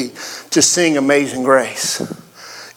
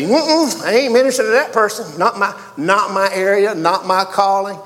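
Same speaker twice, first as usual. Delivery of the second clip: mock reluctance; 4 semitones higher than usual. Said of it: "have you reserved yourself to say".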